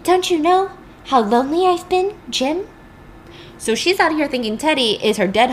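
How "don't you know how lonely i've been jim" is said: high, pleading mock lament; lonely Rachel. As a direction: plead like an abandoned wife. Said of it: "And she says".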